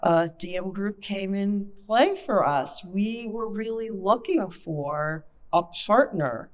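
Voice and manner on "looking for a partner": "partner" set apart, pitched up on its first syllable; stress on partner. Real, not acted. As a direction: land slowly and firmly on "partner". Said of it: "I wanna emphasize the word partner".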